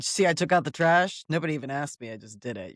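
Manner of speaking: put-on a teen showing off for chores; smug teen bragging. Mother retelling her son bragging, mild smug boast. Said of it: "He'd be like".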